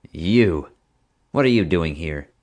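jab the words at him; accusing. Acted. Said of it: "pointed accusingly".

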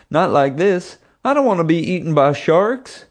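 high, loud panicky whine; whining. A narrator's reading. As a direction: wail it in hammed-up fear. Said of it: "he whined".

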